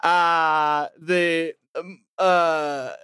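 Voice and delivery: high, hammed-up English accent climbing as it goes; odd English accent. Podcast host introducing the show as an avatar, odd English accent. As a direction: put on a bad British accent, pitched well up, drifting Australian. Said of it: "very odd English accent".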